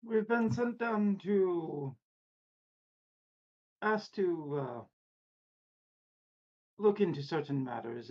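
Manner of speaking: put-on a light stab at a German accent; half-hearted German accent. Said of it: "with a German accent".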